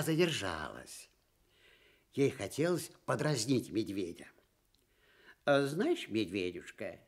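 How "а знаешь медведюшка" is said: sweet sing-song. Acted. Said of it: "ласково пропела она".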